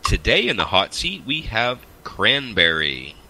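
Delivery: announcer voice. Acted. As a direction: stretch it out like a stage announcer. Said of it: "your announcer voice is killing me".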